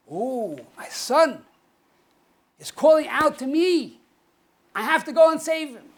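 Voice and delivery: acted father, rising to high, loud urgency; moved father responding. Acted father answering child's call.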